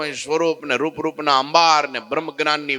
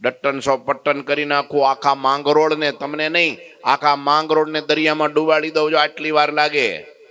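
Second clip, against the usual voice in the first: bellowing threat; 2 semitones higher than usual. Acted. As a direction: threaten to drown the town. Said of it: "બૂમ પાડીને બરાડા મારવા માંડ્યો". (ધમકીભરી બૂમ)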